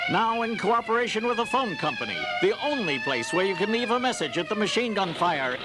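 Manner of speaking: put-on booming old-time announcer; radio announcer. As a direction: sell it like a vintage radio ad. Parodies announcer.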